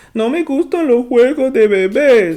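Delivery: very high-pitched, very loud, whiny complaining tone. Reading the next part aloud with emotion, in a hella whiny voice. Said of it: "you could just tell it's hella whiny".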